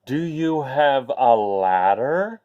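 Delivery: slow, mock growled question; mild growl. Fed-up prince growling up at Rapunzel, slow mock growl. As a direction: drag it out grumpily. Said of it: "He growled up".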